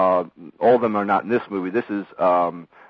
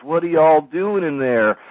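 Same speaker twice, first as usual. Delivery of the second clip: high, slow southern drawl; Gomer Pyle-ish southern; 9 semitones higher, 5 dB louder, slower than usual. Retold or imitated. Dewey walks in on the band in the back room, southern drawl. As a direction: play a loud, drawn-out southern yokel accent. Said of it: "southern kinda Gomer Pyle-ish accent".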